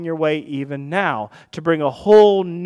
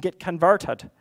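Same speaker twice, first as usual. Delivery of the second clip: Irish; 3 semitones higher, slower than usual. Real, not acted. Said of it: "I was Irish there for a second".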